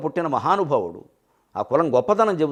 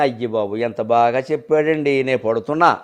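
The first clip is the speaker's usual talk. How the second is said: low, slow mock sigh of a suffering parent; lamenting listener; 7 semitones lower than usual.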